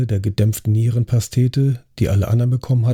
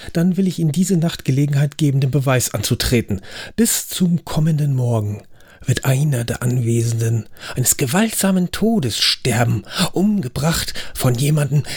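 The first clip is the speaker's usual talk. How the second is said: host warns the guests, building from lively to hushed; ominous host announcement; 4 semitones higher than usual. Acted. Host warning dinner guests of a murder, darkly ominous. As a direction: speak up to the table, then sink to a secret.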